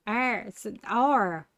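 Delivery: drawn-out "R", like a pirate's "arr". Shown as a demonstration. Streamer struggling to say the letter R, pirate-like R. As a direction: stretch "R" slowly into a piratical "arr". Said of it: "I sound like a pirate".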